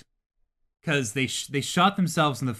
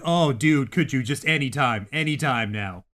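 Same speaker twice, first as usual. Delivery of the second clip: impatient; 4 dB louder than usual. Retold or imitated. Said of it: "And you're like".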